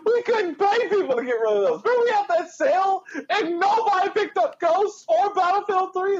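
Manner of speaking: words squeezed out through laughter; high, wheezy laughing speech; laughing while talking. Real, not acted. Cracking up remembering the sale.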